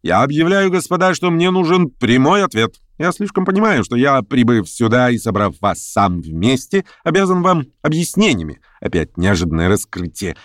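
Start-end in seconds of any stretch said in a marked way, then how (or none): 0.0-8.6 higher-pitched, insistent declaration; commanding orator pressing his audience; imperious political agitator. Acted. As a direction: demand a straight answer from the gathering.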